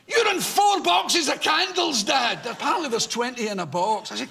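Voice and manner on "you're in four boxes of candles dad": announcing loudly. Retold or imitated. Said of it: "announces at the top of her voice".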